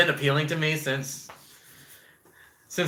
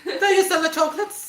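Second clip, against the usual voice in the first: laughing. Retold or imitated. Repeating the episode quote.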